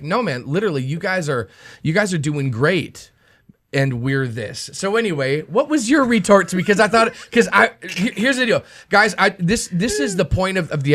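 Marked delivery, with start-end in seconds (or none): 0.0-4.7 quieter, earnest imitation of Paul; mean it plainly, no snark; softer, literal praise, lightly voiced; sincere Paul. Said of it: "Is he being snarky or is, is he like".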